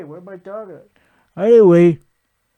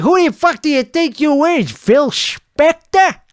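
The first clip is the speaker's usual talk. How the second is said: mock indignant retort; 7 semitones higher than usual. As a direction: replay the comeback with hammed-up outrage. Repeats the retort he admired.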